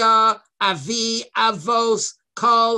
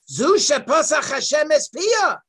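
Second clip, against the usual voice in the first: crowd exclaiming; 6 semitones higher, 5 dB louder than usual. Retold or imitated.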